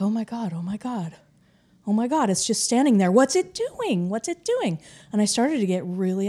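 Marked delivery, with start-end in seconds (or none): 0.0-4.8 panic. Retold or imitated. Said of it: "And so I'm complete panic".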